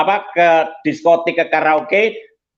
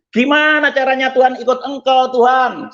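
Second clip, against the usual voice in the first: higher, drawn-up pleading cry to God; retold tearful plea; 5 semitones higher than usual. Man begging God to show the way, retold tearful plea. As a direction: re-enact a desperate plea without sobbing. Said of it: "Saya nangis terus".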